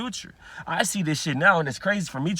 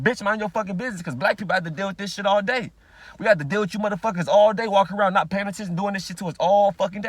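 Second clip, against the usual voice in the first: raised, louder tirade; angry cussing out; 4 semitones higher, 4 dB louder than usual. Retold or imitated. Cussing out a woman in the store, a raised angry tirade. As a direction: tear into her, retold. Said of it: "cussed her ass out in English".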